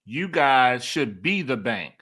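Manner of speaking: slow, deliberate repeat of a key line; emphatic repeat. Retold or imitated. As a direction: spell it out slowly, letting it land. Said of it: "you gotta repeat that one".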